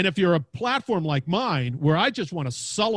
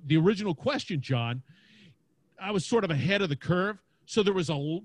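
normal talking voice

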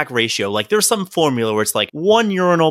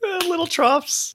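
mock drunk buddy; 3 dB quieter, slower than usual. Mocking the drunk friend.

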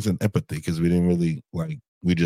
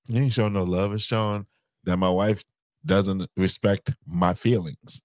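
drawn-out, dramatic complaint. Real, not acted. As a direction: stretch out the wounded complaint for effect. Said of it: "you so dramatic".

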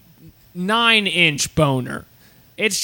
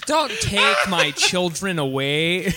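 mock plea in a badly faked American accent; attempted American accent. Mother pleading against child services, badly faked American accent. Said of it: "trying to keep her child from being".

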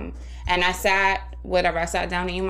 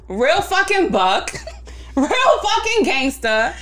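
laughing mockery; 9 semitones higher, 3 dB louder, slower than usual. Mocking coworker's tough text.

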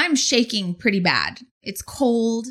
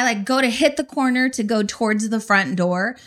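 ordinary delivery, nothing marked

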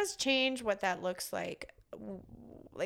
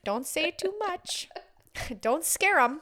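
mock hushed advice; 4 semitones higher, 7 dB louder than usual. Shown as a demonstration. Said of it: "you just sit very quietly".

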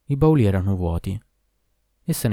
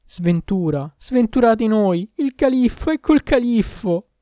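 much higher, loud and drawn-out alarm; panicked cry; 13 semitones higher, 6 dB louder, slower than usual. A narrator's reading. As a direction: wail the warning slowly. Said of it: "giunse al mio orecchio un grido". (grido di panico, molto acuto e forte)

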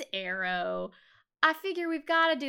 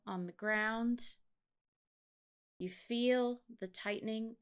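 guided meditation; 4 dB quieter than usual. Acted. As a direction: talk them gently into the scene, breath by breath.

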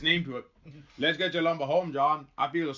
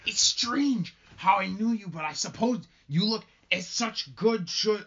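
higher and slow, overly gracious; theatrical Hale; 7 semitones higher, slower than usual. Acted. Hale flatters Rebecca Nurse, slow and high. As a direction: lay the courtesy on thick.

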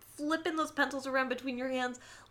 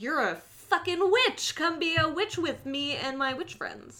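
excited witch recruit; 5 semitones higher than usual. Retold or imitated. Nancy invites the new girl into the coven, excited and higher. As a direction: gush over the new girl. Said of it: "Nancy clocks her and is like".

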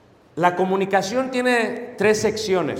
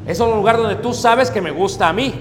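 wife's real meaning; 4 semitones higher than usual. Retold or imitated. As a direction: spell out what she really wants. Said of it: "Lo que la mujer realmente dijo".

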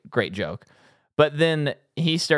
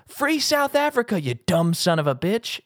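imitating Murtaugh's line; 7 semitones higher than usual. Retelling a favorite movie scene, hammed-up high shout. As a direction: belt it out like the movie cop. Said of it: "he says my favorite delivery".

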